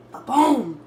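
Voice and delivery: loud high ta-da; excited reveal. Real, not acted. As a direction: announce it like a magic trick. Unveiling finished sandwich.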